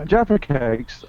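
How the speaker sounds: normal talking voice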